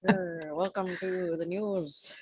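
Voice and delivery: slow, formal newscaster delivery; news reporter voice. Shown as a demonstration. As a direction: read it like an evening anchor. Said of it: "my, uh, news reporter voice".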